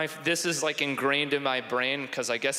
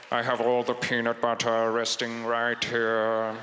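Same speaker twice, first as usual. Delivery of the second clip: Snape's voice; 3 semitones lower than usual. Acted. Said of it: "Snape's voice".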